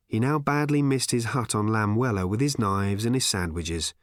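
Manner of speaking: plain reading voice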